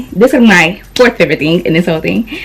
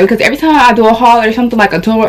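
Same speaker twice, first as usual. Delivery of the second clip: out of breath; faster than usual. Real, not acted. Vlogger tells viewers why hauls wind her, out of breath. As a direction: explain it while short of breath. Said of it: "I'm out of breath".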